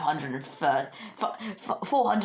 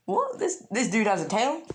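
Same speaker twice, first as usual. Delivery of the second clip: shrill higher what, quickly settling; mock shock; 4 semitones higher than usual. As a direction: act stunned at the tail. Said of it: "and they're like".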